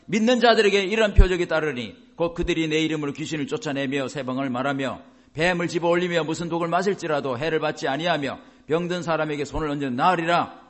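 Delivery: formal Bible reading to a congregation; scripture recitation. Acted. Preacher reads a Bible verse to believers, steady recitation. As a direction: run the verse on in long, steady phrases.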